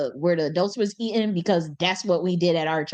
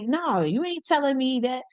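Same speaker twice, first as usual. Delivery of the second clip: going off; 4 semitones higher than usual. Retold or imitated. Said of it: "He was going off on that lady".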